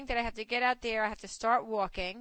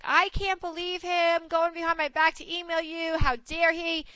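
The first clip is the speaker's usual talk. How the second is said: higher-pitched mock outrage; retold indignation; 5 semitones higher than usual. Friend calls up about her husband's email, retold indignation. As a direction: imitate an indignant wife complaining.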